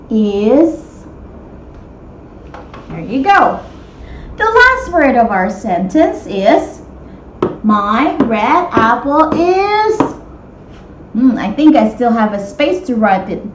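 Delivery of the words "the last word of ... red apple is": slow reread. Shown as a demonstration. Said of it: "rereads sentence slowly".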